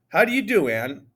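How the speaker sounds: mock-suave greeting; putting on charm. A narrator's reading. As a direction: lay on the charm, hammed up. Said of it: "I say in my most charming voice".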